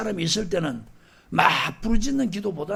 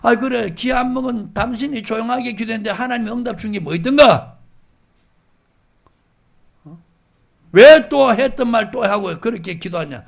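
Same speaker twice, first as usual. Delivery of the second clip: retort to a critic; 3 semitones higher, 8 dB louder than usual. Retold or imitated. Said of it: "성경으로 답할 수 있어요".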